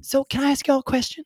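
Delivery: pious host probing guests at dinner; mild Texan hostess. Retold or imitated. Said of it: "she goes".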